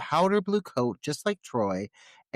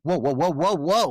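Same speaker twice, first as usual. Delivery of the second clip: louder, higher string of alarmed whoas; imitated freak-out; 4 semitones higher, 6 dB louder than usual. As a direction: mimic someone starting to panic. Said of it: "he starts to freak out".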